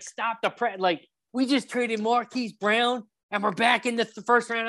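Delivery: breathless-sounding fan disbelief, pitched high; shocked, excited. Retold or imitated. Fan reliving the trade news, shocked and excited. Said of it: "shocked, like, excited".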